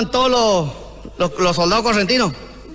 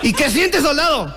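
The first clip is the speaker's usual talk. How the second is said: barking sergeant; 6 semitones higher than usual. Acted. Sergeant questions soldier.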